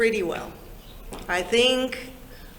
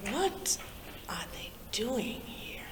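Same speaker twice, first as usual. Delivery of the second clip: high "What", then slow half-whisper; hushed bewildered thought; 5 semitones higher, 8 dB quieter, slower than usual. Retold or imitated. Youngster looking around at busy people, hushed bewilderment. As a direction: voice a puzzled thought, dropping away to a whisper.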